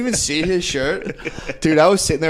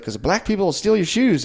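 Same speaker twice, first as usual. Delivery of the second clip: higher-pitched put-on woman's voice; imitated Irish lady; 6 semitones higher than usual. Comic voicing the lady's answer about shoelaces, higher imitation. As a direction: quote her answer with raised pitch.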